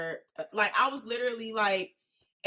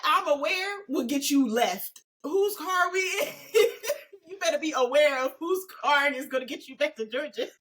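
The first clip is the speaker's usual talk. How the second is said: high, squealing through laughter; laughing to tears; 6 semitones higher than usual. Real, not acted. Friend warning about whose car to ride in, laughing to tears. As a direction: crack up until the words turn tearful. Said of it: "I'm, like, crying".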